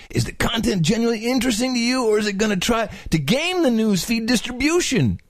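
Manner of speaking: laid-back surfer reading. Shown as a demonstration. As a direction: read it like a mellow surfer. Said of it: "slightly surfer voice that you do".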